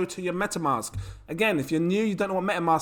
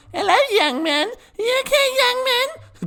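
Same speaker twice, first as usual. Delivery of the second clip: put-on very high, little old granny voice; 4 dB louder than usual. Talking about their streamer deck, the speaker imitates their granny's voice. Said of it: "my granny comes".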